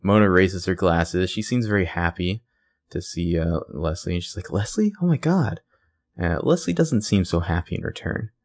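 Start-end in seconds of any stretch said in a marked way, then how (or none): 4.5-5.6 high squeal of mock delight; delighted surprise. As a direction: voice Mona thrilled to spot a friend. Mona delighted to see Leslie.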